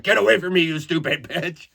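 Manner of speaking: furious shout. Retold or imitated. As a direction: drive her away, yelling. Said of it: "And I'm like".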